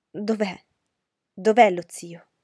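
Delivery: a sister's alarmed shout for help; anxious cry. Acted. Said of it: "gridò Elizabeth".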